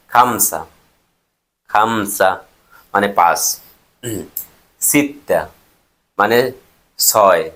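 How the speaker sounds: slowly, word by word with pauses; slow dictation. Shown as a demonstration. Teacher dictating Arabic numbers to learners writing them down, slow dictation. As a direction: leave time to write each number down. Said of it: "আমি আস্তে আস্তে বলতেছি".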